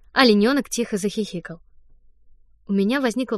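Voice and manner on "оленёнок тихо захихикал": usual speaking voice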